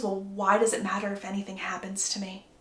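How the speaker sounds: soft whispered hurt question; whispering. Retold or imitated. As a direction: breathe it out, hurt.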